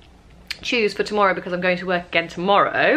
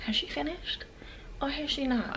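soft, higher-pitched hushed questions; hushed, trying to be quiet; 6 semitones higher, 13 dB quieter than usual. Real, not acted. Vlogger asking while the house sleeps, high and hushed. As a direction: raise the pitch but keep the volume tiny. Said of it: "I'm trying to be quiet".

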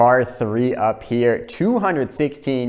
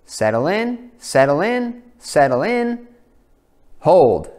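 pleading with the ball; 6 semitones higher, 4 dB louder, slower than usual. Real, not acted. Willing the ball to stop.

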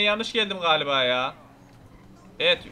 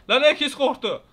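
excited laughing exclaim; 7 semitones higher, 6 dB louder, slower than usual. Real, not acted. Laughing at scared guards.

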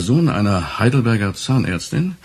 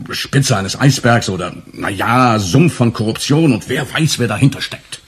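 mocking cliché. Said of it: "zu Pauschalurteilen wie".

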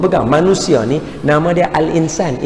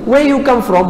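much higher, eager question; curious asking; 7 semitones higher than usual. Shown as a demonstration. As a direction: ask as if you really want to know. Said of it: "Muka nak tahu".

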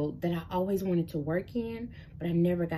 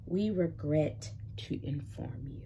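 slower, softer, worn-down rejection line; weary repeat; 3 semitones lower, 5 dB quieter than usual. Retold or imitated. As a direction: let it sag like the hundredth rejection. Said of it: "email after email of".

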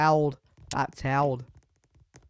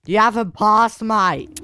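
higher, louder protest, haven't punched; indignant call; 5 semitones higher, 7 dB louder than usual. Real, not acted. Gamer repeats to teammate he hasn't passed, louder and higher. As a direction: insist on it now, raising the voice. Arguing with teammate over a pass.

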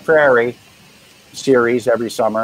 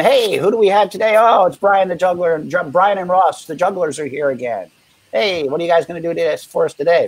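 TV host; 4 semitones higher than usual. Retold or imitated. Imitating TV host on air.

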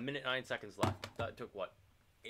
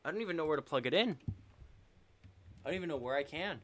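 higher, louder, fast rising panic; panicked repeat; 7 semitones higher, 5 dB louder, faster than usual. Real, not acted. Streamer still hunting for the cable as the round is lost, higher and louder panic. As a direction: push it up in pitch like rising alarm.

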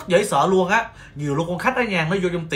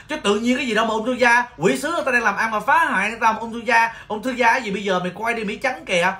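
exasperated, slightly raised pitch; indignant rant; 3 semitones higher than usual. Real, not acted. Nail tech railing at TV cancer scare, indignant. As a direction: grumble hotly at the culprit. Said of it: "tôi thấy tôi tức quá mà".

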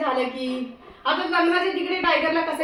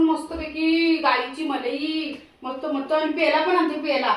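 slow, drawn-out treat talk; tempting promise; 4 dB quieter, slower than usual. Real, not acted. Owner tempting her dog with cream, slow and drawn out. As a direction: dangle the treat, stretch it out.

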